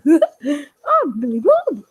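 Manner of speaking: very slow, laughing, fake-weepy puppet; mock tearful. Puppet Billy Bob says his name, mock tearful and very slow. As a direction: drag out I'm Billy Bob with a hammed-up sob. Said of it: "I don't really talk like that much".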